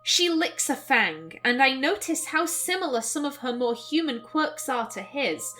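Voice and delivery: measured, expressive reading of a story; story narration. A narrator's reading. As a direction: narrate the scene with care. Reads the game's narration aloud.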